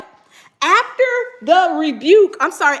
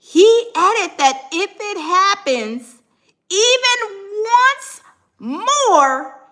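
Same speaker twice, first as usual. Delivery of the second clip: rising alarm read; 6 semitones higher, 4 dB louder, slower than usual. Real, not acted. Reading judge threat rising.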